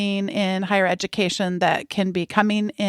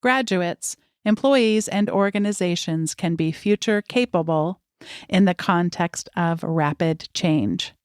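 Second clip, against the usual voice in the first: measured, carefully phrased bio read; formal guest introduction; 3 semitones lower than usual. Acted. Host introducing a guest to podcast listeners, formal read.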